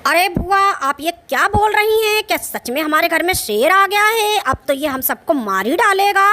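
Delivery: loud, frantic cry for help; panicked shouting. Acted. Girl to aunt about the lion, loud frightened shouting. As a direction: yell in terror that a lion is inside.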